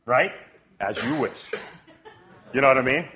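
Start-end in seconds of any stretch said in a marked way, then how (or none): 0.8-1.4 nice, low and soft movie-quote voice; Wesley. Retold or imitated. Quoting Princess Bride to the congregation, nice low soft impression. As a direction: drop low and soft, obligingly granting a wish. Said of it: "in that nice".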